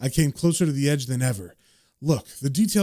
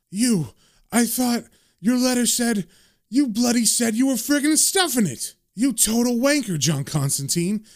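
higher, worked-up ranting at a mate; mock shouting; 5 semitones higher than usual. Chaz ranting at John for walking off, hammed-up indignation. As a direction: play an indignant mate giving him an earful. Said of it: "Chaz is shouting and swearing".

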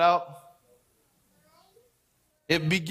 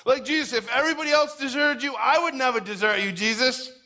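imitating an overeager disciple's vow; overzealous boasting; 6 semitones higher than usual. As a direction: pledge loyalty with showy zeal, pitched up. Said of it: "like, overzealous".

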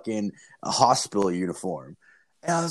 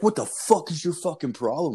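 higher, hammed-up raging old man; mock angry old man; 6 semitones higher than usual. Old man yelling at the young driver, mock angry and higher. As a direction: play the cranky old guy picking a fight.

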